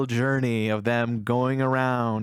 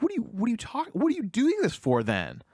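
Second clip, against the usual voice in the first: much higher, stammering disbelief; shocked; 11 semitones higher than usual. Retold or imitated. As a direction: ask it as if the answer makes no sense to you. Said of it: "he's just shocked".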